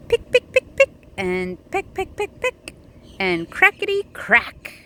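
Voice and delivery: high bright pecking and cracking; excited hatching sounds. A narrator's reading. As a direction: build the cracking with glee. Egg hatching sound build.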